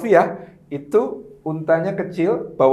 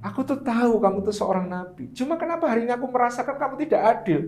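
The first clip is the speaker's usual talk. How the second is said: hurt questioning; 6 semitones higher than usual. Retold or imitated. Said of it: "itu hanya mempertanyakan".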